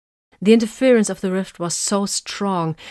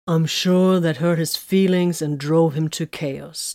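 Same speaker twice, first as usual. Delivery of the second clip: slow, dry sarcasm; deadpan sarcastic jab; slower than usual. Acted. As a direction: drawl it out mockingly. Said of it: "Titus said sarcastically".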